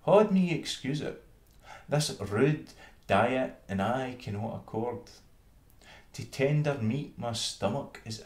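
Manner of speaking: fussy town mouse. Acted. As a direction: refuse the meal with delicate airs. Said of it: "quoth she".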